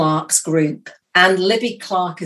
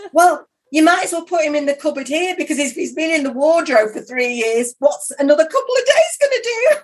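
laughing through words; 10 semitones higher than usual. Retold or imitated. Retells absurd reply, laughing.

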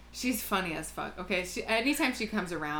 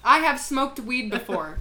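imitated insistence, loud, slow and higher; tripling down; 5 semitones higher, 8 dB louder than usual. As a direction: hammer it out defiantly, laughter close behind. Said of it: "started tripling down".

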